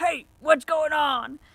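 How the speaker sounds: very gruff, rough, groggy just-woke-up voice. Retelling waking in a van to voices outside; retelling a gruff reply. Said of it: "very gruffly".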